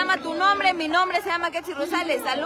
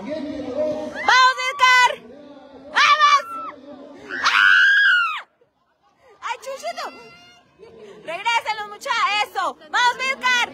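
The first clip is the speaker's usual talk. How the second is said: breakneck goal commentary; 9 semitones higher than usual. Real, not acted. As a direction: scream gol, gol, gol. Cheering through to the goal.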